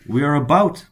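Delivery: real Canadian accent on "about". Real, not acted. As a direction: let the Canadian vowel show in "about". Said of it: "you hear how Canadian that was".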